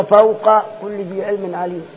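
slow recited فوق كل ذي علم عليم with the قاف and كاف both clear; no merging. Shown as a demonstration. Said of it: "قبل القاف في واو ساكن".

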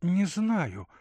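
thinking aloud, drifting off; pensive Katerina. Acted. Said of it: "сказала задумчиво Катерина".

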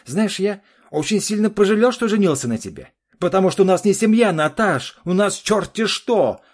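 очень высоко и громко, с вызовом; огрызайся в ярости; гневно. Acted. Муж кричит на жену. (жена кричит на мужа, высоко и громко)

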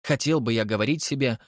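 heightened theatrical Holly voice; a vain artist musing aloud; Holly, dramatic. Acted. Holly's long monologue. (капризный художник Холли)

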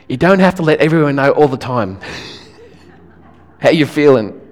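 chuckling as the advice lands; laughing through it. Real, not acted. Preacher teasing the extroverts in the congregation, laughing. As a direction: let a laugh break in on the last words.

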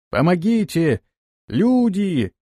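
high, desperate call across the swamp; cry for help. Acted. Trapped woman crying out for help across the swamp, desperate. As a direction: scream for help, terrified.

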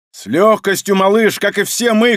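high, loud, fervent cry; emotional shout. Acted. Izukha shouts encouragement to the boy, high and loud. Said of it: "крикнул Изуха ... из-за эмоций".

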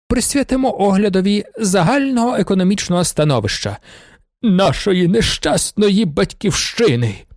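a prince moved almost to weeping; near tears. A narrator's reading. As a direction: let the voice well up with emotion. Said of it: "майже зі сльозами на очах".

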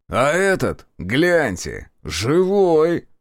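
astonished exclamation rising on the last word; surprised. A narrator's reading. Reshetov spotting a survivor in the field, surprised. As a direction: call out in amazement. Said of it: "удивлённый голос Решетова".

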